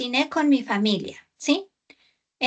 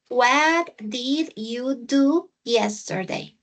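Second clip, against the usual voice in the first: slow model reading; much slower than usual. Shown as a demonstration. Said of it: "Again, read it".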